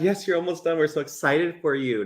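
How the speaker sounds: high-pitched, supportive pep talk; inspirational encouragement. Shown as a demonstration. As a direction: model an encouraging cheer without raising the volume. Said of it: "A little bit more inspiration".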